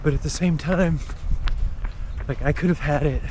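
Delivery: talking while running, a bit breathless; while jogging. Real, not acted. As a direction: speak as you jog outdoors. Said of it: "I'd be running anyway".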